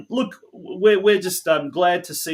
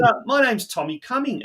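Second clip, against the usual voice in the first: bad Scottish accent; 7 semitones higher than usual. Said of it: "that's my bad Scottish accent".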